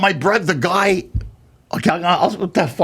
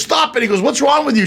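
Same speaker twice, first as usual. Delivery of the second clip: higher-pitched mock exasperation; exasperated scolding; 7 semitones higher than usual. Brother stops the actress's take, exasperated. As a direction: retell a fed-up director cutting in.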